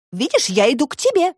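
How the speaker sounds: put-on high girl's voice, reasoning; Alisa arguing. A narrator's reading. (высокий девичий голос, спорит)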